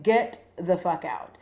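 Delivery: slow, weighted order at normal volume; retold order, each word measured; firm cursing out. Retelling how she cursed out her date, firm and contained. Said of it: "I'm, like, cursing him out".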